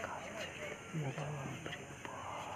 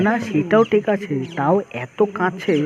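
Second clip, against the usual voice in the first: excited; 9 dB louder, slower than usual. Real, not acted. Thrilled at animals so close.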